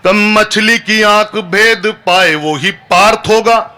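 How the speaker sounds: drawn-out verse, each word weighed; slow poem recital. Acted. Poet to the crowd, slow verse recital. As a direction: recite it slowly like a stage poem.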